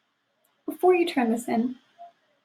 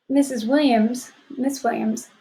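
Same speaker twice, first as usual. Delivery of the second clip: drowsy yawning voice. Real, not acted. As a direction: say it mid-yawn. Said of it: "sorry, I'm yawning".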